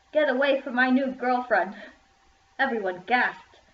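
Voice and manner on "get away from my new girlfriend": louder and higher, firm command; loud and clear. A narrator's reading. Jack pushing Ashley away, loud and clear. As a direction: claim her out loud. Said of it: "and said loud and clear".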